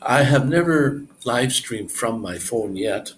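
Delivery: words stretched by a yawn. Real, not acted. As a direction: talk through a yawn. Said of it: "Wow, I'm yawning a lot".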